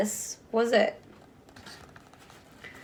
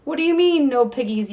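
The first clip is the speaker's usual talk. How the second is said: high, loud furious witch; scream; 3 semitones higher, 5 dB louder than usual. Acted. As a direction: scream it at the cow. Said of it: "screamed Gritch".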